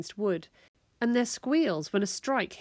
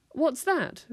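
a bit breathless after sparring; out of breath; 8 semitones higher than usual. Acted. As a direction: ask between panting breaths. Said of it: "a little out of breath".

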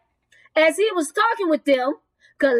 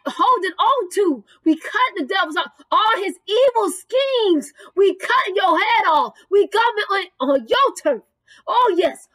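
impassioned, emphatic preacher's exhortation; rally the congregation against the enemy; rousing sermon, pitch rising on the declarations; fervent preaching. Real, not acted. Preaches at full force.

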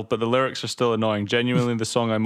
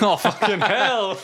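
exasperated; 9 semitones higher, 3 dB louder, slower than usual. Real, not acted. Exasperated at another sex song.

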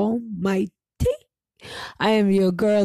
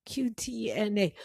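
whisper; 9 dB quieter than usual. Retold or imitated. Secretive spelled acronym.

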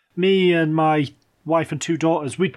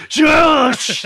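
sudden high, loud shush; retold loud shush; 11 semitones higher, 8 dB louder than usual. Dad shushing back at a kid through the gap, loud explosive shush. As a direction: blast a shush to startle a child. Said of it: "put my face in between the gap and went".

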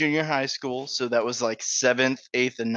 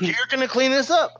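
much higher, louder mock janitor; angry janitor; 13 semitones higher, 5 dB louder than usual. Janitor confronting the messy kid, angry. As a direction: demand it like a fuming janitor. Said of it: "He was pissed".

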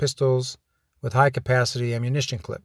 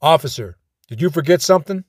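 sergeant calling out, only mildly raised; mild acted yell; 2 semitones higher, 4 dB louder than usual. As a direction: call the officer back with a touch of a yell. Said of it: "he yelled".

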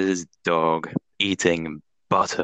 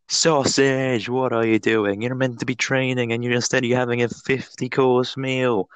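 raised-pitch, exasperated telling-off; mock scolding; 3 semitones higher than usual. Owner catches his sausage dog at the fridge, mock scolding. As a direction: tell off the dog in playful dismay.

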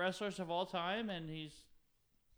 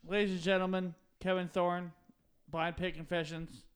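announcer; 5 dB louder, slower than usual. Acted. Introducing guest like announcer.

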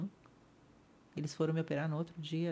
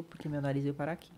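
tearful quote; 2 semitones lower, 3 dB quieter than usual. Retold or imitated.

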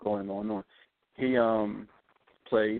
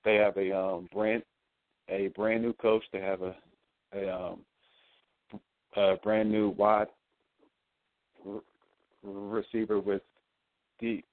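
excited stammer, restarting words; stuttering. Real, not acted. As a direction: trip over the first sounds. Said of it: "I'm just stuttering like, like crazy".

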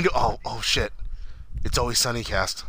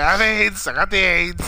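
mock boast; 6 semitones higher, 5 dB louder than usual. Character bragging retold.

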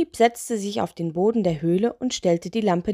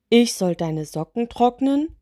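higher, affronted question; exclaimed; 4 semitones higher than usual. Acted. Spirit asked to dry socks, exclaiming mildly. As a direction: exclaim in mild disbelief. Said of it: "rief der Laternengeist".

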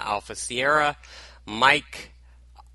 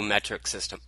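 slurred without teeth; mushy gummed words; mouth full; 5 dB quieter, faster than usual. Real, not acted. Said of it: "Boy, can't talk today".

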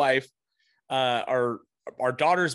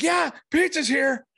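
imitating son; 12 semitones higher, 3 dB louder, slower than usual. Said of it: "He's like".

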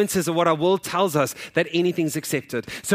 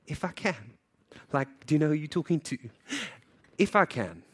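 smirking; 4 dB quieter than usual. Pretend. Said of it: "with, like, a smirk on his face".

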